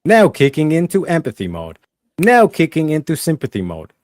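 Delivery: mock robot announcement. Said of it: "your mind tells you".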